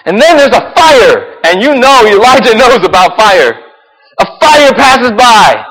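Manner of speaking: high, loud amazed preaching; excited preaching. Real, not acted. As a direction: tell it like it's the wildest thing ever. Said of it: "I cannot shout loud enough".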